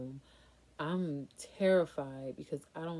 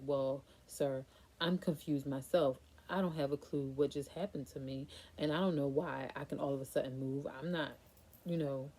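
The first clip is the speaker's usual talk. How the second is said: exasperated; 4 dB louder than usual. Retold or imitated. Patient answers a confused doctor.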